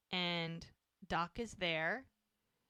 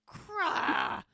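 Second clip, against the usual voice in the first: much higher, louder startled what; louder mock shock at her gossip; shocked outburst; 13 semitones higher, 3 dB louder than usual. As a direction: blurt it out in shock. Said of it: "And he's like".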